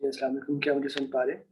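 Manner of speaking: quiet, faint mic audio; barely audible. Real, not acted. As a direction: voice coming through weakly. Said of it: "आपकी आवाज कम आ रही है".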